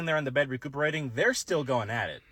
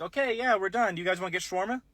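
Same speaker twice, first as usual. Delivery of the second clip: much higher, worn-out hero quip; exhausted Iron Man; 7 semitones higher than usual. Retold or imitated. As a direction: play spent Iron Man after the battle.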